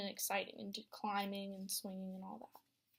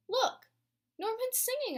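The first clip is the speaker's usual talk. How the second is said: excited; 12 semitones higher, 6 dB louder than usual. Acted. Child excited by singing fish.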